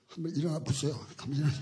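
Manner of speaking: soft, hesitant 일어나 said like a polite request; timid command. Shown as a demonstration. Preacher showing the wrong way to command healing, timid request. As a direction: ask them to get up meekly. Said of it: "이러면 안 돼".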